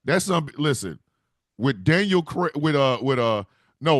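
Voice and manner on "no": usual speaking voice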